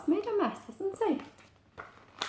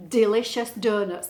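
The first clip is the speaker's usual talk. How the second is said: initial D stressed in "Delicious donuts"; "Delicious donuts" with each first D picked out; alliteration demo; 6 dB louder than usual. Shown as a demonstration. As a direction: punch the D starting "Delicious" and "donuts". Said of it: "They both started with a D".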